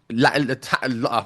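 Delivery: stumbling over the first sound; stuck on the word, stammering; stuttering. Real, not acted. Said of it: "I'm stuttering".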